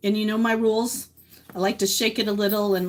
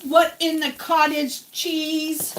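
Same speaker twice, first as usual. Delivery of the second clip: mock outrage; 5 semitones higher, much slower than usual.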